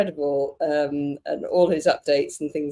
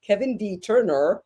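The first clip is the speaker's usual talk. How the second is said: lightly put-on non-English accent, drawn out; a hint of a borrowed accent, not English; 2 semitones higher than usual. Shown as a demonstration. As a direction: stretch it out slowly in a slightly non-English accent. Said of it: "I can't say it in an English accent".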